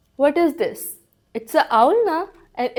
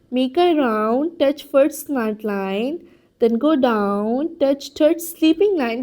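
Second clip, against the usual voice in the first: very slow, deliberate writing instructions; slow dictation; much slower than usual. Acted. Teacher guiding the play group through writing O, very slow. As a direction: spell out each stroke for small children.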